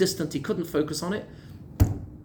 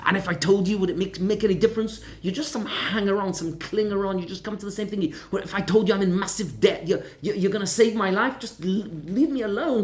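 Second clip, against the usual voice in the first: a raised, bitter snap at the passenger; snapping; 4 semitones higher than usual. Retold or imitated. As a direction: lash out, fed up and cornered. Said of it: "this guy just snapped".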